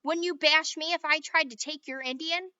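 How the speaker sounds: loud heated squabble; kids' quarrel. A narrator's reading. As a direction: argue hotly over the toy. Children quarrel.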